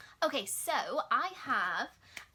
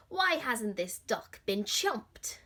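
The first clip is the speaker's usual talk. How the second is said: mild lion growl; 4 dB louder, slower than usual. Acted. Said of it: "they growled".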